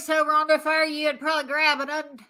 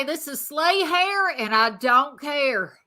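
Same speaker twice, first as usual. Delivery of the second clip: sassy catchphrase; slower than usual. Acted. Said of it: "this is what I say".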